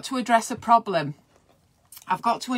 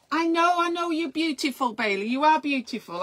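higher cooing voice to the dog; pet talk; 5 semitones higher than usual. Real, not acted. Telling Bailey she is beautiful, high cooing voice. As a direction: reassure the dog gently.

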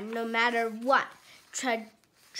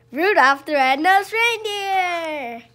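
loud high announcement of the name; excited; 5 semitones higher, 11 dB louder than usual. Real, not acted. Parent naming Rudolph to the child, excited and loud.

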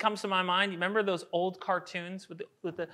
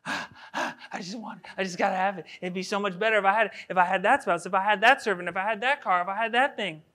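hammed-up coveter whining for more; mock longing. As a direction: play someone panting after what they want. Acting out a coveting heart.

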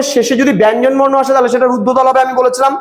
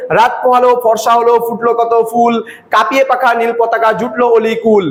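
rhyme read in one breath. Shown as a demonstration. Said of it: "এক নিঃশ্বাসে আমরা পড়ে কিন্তু শেষ করে দিতে পারি".

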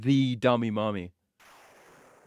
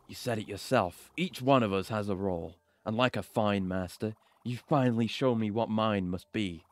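cool, measured defiance; resentful rival; 2 semitones lower than usual. Acted.

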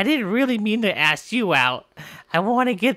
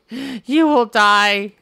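menacing threat; 3 dB louder, much slower than usual. Acted. Threat repeated.

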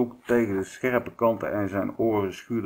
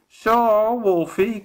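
high, loud cackling witch voice; 13 semitones higher, 6 dB louder, much slower than usual. A narrator's reading. Witch revealing herself to the wolf, high cackle. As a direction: crow it like a gloating witch. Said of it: "kakelde ze".

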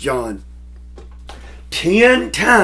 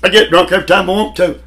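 fast, raised, boasting; imitating D L Moody; 5 semitones higher, 3 dB louder, much faster than usual. Preacher quoting Moody's old boast, fast and brash. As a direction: rattle it off like a carefree drinker. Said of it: "D L Moody said it".

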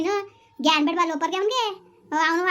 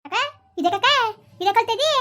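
laughing; 6 semitones higher, 4 dB louder than usual. Acted. Laughing greeting.

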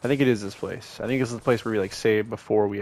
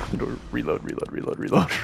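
urgent whisper; 3 dB quieter than usual. Real, not acted.

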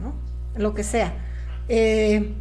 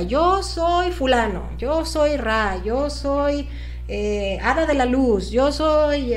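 channeler voice; much slower than usual. Retold or imitated. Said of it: "gente que canaliza, cómo cambia".

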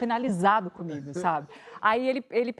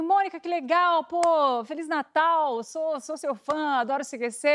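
a fan cop gushing, pitched higher; excited fan cop; 5 semitones higher, slower than usual. Retold or imitated. Cop greets Mônica as a fan, gushing. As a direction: gush like a delighted fan.

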